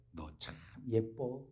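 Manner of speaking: soft, slow compliment; praising water. Acted. Preacher sweet-talking a glass of water, soft praise. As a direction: draw it out gently, as if admiring. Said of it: "칭찬할 때하고 욕할 때".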